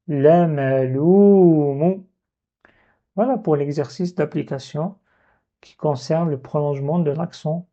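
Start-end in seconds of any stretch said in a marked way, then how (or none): 0.1-2.0 "lamaloumu" chanted slow in one breath; whole word at once. Shown as a demonstration. Teacher gives the final reading, slow. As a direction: say it in a single flow. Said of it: "Et je dis".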